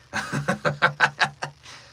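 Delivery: tired but hungry villain's chuckle; deep villain chuckle. Shown as a demonstration. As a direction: chuckle deep, beaten yet hungry for the fight. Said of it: "Deep chuckle if he's beat".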